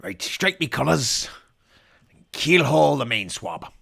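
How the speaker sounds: slow hammy pirate orders. Pretend. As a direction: bark nonsense like a pirate. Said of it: "I don't know what I'm saying".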